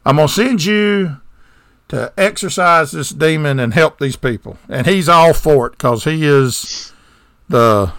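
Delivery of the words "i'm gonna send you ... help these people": put-on half-hearted Italian accent for the Pope; bad Italian accent. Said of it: "in very bad Italian accent".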